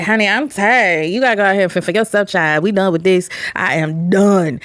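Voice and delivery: a hint of a worn-out mother bird; tired mama bird. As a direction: drag it out like a weary mom nudging babies off.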